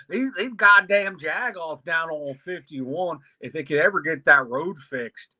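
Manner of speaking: lightly put-on Pittsburgh local griping; imitated Yinzer. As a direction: gripe like an imagined Yinzer. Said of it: "he looks like a Yinzer".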